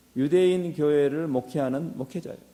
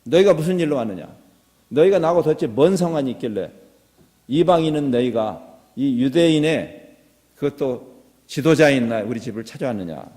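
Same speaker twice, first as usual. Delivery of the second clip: louder, mock-brusque questioning of visitors; acted brusque challenge; 2 semitones lower, 6 dB louder than usual. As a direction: demand an explanation brusquely, as if quoting Peter. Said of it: "퉁명스럽게 말하죠". (퉁명스럽게 따지는 흉내)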